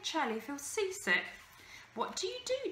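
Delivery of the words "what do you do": put-on boy's voice. A narrator's reading. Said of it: "Charlie asked Pirouette".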